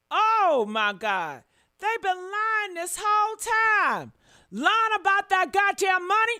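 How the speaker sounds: loud, high, heated complaint; venting full fury at them; outraged rant. Real, not acted.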